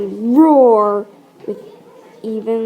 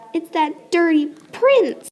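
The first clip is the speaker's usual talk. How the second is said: excited exclaim; 7 semitones higher than usual. Acted. Stepsister excitedly mistakes her.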